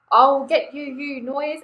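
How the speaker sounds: angry yell. Acted. Owl shouting at the noise while tearing down walls. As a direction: threaten the noise. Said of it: "Owl said, as he tore down".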